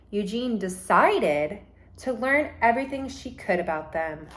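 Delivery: storybook read-aloud, gentle and lively; reading to children. Acted. Teacher reads a picture book to her class, lively.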